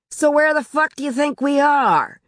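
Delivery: high-pitched, exasperated husband's shout; angry shouting. A narrator's reading. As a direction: shout it in irritated disbelief. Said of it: "He was shouting".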